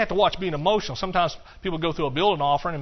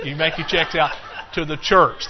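louder, laughing as he sets the joke right and leans on "church"; laughing correction; 5 dB louder than usual. Real, not acted. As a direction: correct yourself through a laugh and hit "church". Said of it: "No, you".

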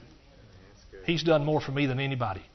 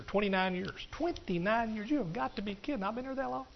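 higher, much softer amazement; mock disbelief; 5 semitones higher, 9 dB quieter than usual. Real, not acted. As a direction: marvel quietly at the years. Mock disbelief at his tenure.

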